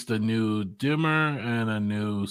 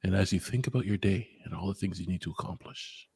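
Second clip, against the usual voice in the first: mock ASMR. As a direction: lull them like a relaxation video, half-joking. Opens show as mock ASMR.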